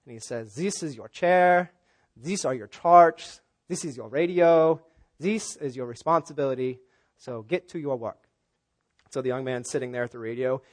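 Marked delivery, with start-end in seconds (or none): 0.5-8.2 put-on brief a trainee with a slight German accent; measured German-accented instructions. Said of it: "for the German Coast Guard".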